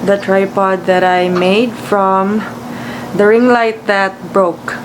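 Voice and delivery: sleepy voice, just out of bed; freshly woken, still groggy; just woke up. Real, not acted. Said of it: "I just woke up".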